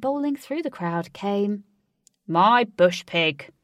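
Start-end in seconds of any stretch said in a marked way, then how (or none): 2.3-3.5 loud, slow, overjoyed; loud slow delighted cry. A narrator's reading. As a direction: greet a beloved pet. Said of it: "cried Ajax".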